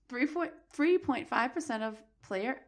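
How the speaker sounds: slow, stumbling read with false start; halting stumble. Real, not acted. Host fumbling a statistic from the article, halting. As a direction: stall over "three point five percent". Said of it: "Spit it out".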